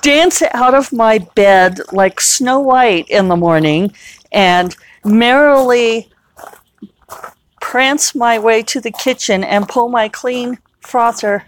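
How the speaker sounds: a light mock Disney princess voice; dreamy princess. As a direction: lilt it like a fairy-tale princess. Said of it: "It's like".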